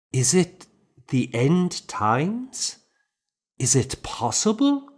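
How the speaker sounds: high, anxious questions; anxious questioning. A narrator's reading. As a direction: ask it worried and unsure. Worried question to abbot.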